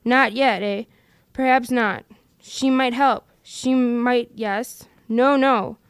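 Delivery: a lightly voiced Gollum, scheming and wheedling. Gollum arguing with himself over the ring, in a scheming wheedle. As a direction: Gollum muttering to his precious, coaxing himself.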